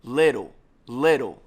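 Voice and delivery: little with the double T as a quick tongue tap; English tapped T. Shown as a demonstration. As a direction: flap the tt in little like a light d. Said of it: "kinda like the double T in the word little".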